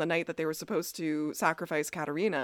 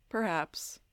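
soft, knowing "Perhaps"; a quietly knowing "Perhaps"; 6 dB quieter than usual. Retold or imitated. Elijah answering Stefan about the brothers' feud, knowingly. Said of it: "very knowingly".

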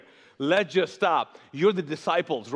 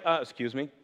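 offended listener; 7 semitones lower, 4 dB quieter, faster than usual. Retold or imitated. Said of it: "you're like".

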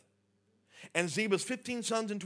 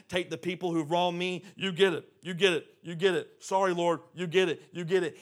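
eager surrender; 4 dB louder than usual. Acted. Surrendering everything to the Lord.

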